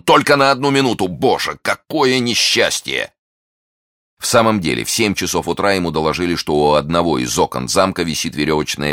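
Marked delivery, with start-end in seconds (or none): 0.0-3.1 high lament slowing at the end; anguished cry. A narrator's reading. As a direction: wail over the misfortune. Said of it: "кричал он".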